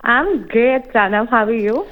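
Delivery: real, mild excitement in the greeting; pleased, lightly excited hello. Real, not acted. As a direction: greet the host with a touch of excitement. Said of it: "I can hear the excitement in your voice".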